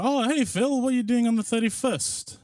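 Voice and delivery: high, bright nagging friend; chirpy friend voice. Retold or imitated. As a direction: pester him cheerfully. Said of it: "and saying".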